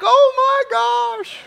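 high, loud, slow stunned shout; shocked passengers. Retold or imitated. Passengers hearing the captain, stunned shout. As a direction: gasp it out stunned. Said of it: "And they're like".

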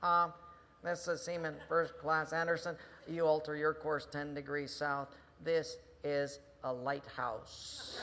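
calm, deadpan reply, slowing at the end; mild sailor holding his ground; lightly voiced seaman. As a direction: deliver the punchline unruffled and slowly. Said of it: "he hears this voice".

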